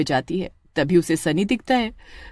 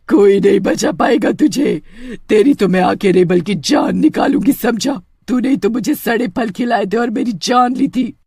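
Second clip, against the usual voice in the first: louder menacing witch, slowing at the end; threatening witch; 2 semitones higher, 4 dB louder than usual. Acted. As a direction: threaten the boy like a vengeful witch.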